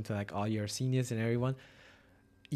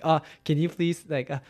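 higher, louder mixed English and Japanese plea; mock-polite foreigner asking to borrow a pencil; halting polite request; 4 semitones higher, 4 dB louder than usual. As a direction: ask politely, fumbling into Japanese. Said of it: "kinda like that".

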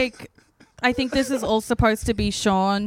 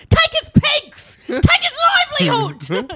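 mock UK accent; 6 dB louder than usual. Joking in the car with James in a mock UK accent. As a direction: bellow it like a cartoon Brit. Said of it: "it's just that accent".

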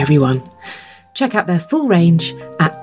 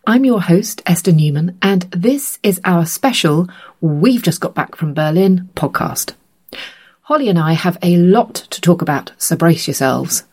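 hoarse from a cold; rough, croaky voice from a cold; gravelly cold voice. Real, not acted. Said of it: "so I sound very gravelly".

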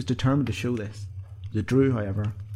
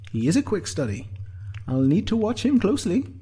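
high-pitched appraising thought; Sinead's inner voice; 10 semitones higher, 3 dB louder than usual. A narrator's reading. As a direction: weigh him up in a high voice. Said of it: "thought Sinead".

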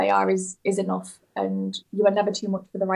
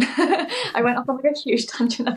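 laughing apology; 4 semitones higher than usual. Real, not acted. Laughing at her own tangent.

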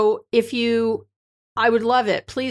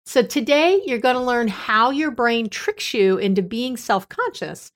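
measured podcast intro voice; scripted intro read. Acted. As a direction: read it like a polished show opener.

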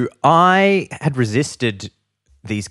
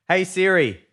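calling to Siri; 9 semitones higher than usual. Shown as a demonstration. Host tries it on own phone, calling to Siri. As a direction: sing it out to a lost phone.

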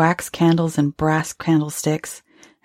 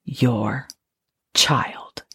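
short; 5 semitones lower than usual. A narrator's reading. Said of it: "she said shortly".

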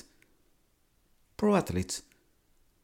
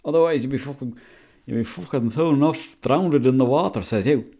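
lightly hammed-up Irish accent, telling sporting yarns; put-on Irish accent; 3 semitones higher, 3 dB louder than usual. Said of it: "I can't continue to do this accent".

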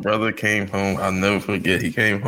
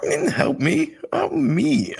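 high-pitched protest. Acted. Joking protest about therapist.

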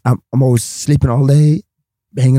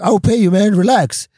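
dismissive boss; 6 semitones higher than usual. Retold or imitated. Club boss brushing off payment.

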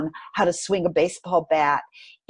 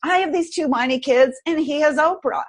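mad at God; 7 semitones higher than usual. Retold or imitated. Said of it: "I was mad at God".

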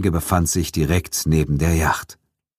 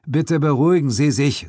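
calm; 10 semitones higher than usual. Acted. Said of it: "mit bedacht ruhiger Stimme".

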